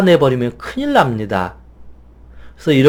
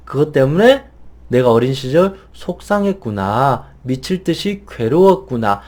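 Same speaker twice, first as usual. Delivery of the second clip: put-on gently reassure, like hugging a crying child; warm comforting. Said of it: "이런 식으로 따뜻하게 위로해주고 달래주면서". (우는 아이를 달래듯 따뜻하게 위로하며)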